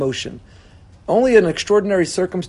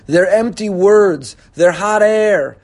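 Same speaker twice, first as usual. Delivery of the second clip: very slow, each word weighed and pressed; slow, hurt rebuke; 2 semitones higher, 5 dB louder, much slower than usual. Retold or imitated. Hurt spouse slowly rejecting empty apologies, very slow, pressed rebuke. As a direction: drag it out, cold and wounded. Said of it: "You say".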